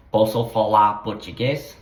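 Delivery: Posso falar português with a rising end; Portuguese question. Shown as a demonstration. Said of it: "you have to sound that out".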